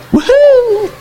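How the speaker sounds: high, gleeful whoop of joy; celebrating. Pretend. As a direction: cheer like your debt just vanished. Imagining debt forgiven, celebrating.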